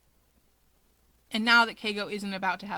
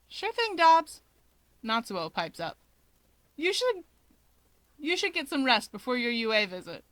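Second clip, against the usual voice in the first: chirpy Natsuo; 3 semitones higher than usual. Acted. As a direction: pipe up cheekily. Natsuo cheerfully teasing his brother.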